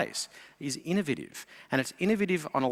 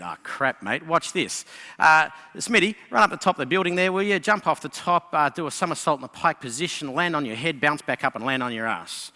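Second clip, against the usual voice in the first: Australian general. Acted. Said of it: "And the Australian said".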